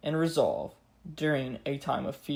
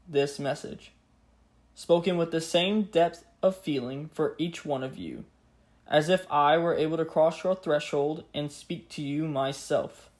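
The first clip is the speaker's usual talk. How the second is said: grave 1940s war broadcast. Acted. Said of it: "Let us now hear the words of the king, just as they were spoken".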